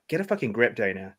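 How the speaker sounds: lightly acted note-to-self; talking to herself. Woman in a script telling herself off, cheesy self-talk. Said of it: "Like that, speaking to herself".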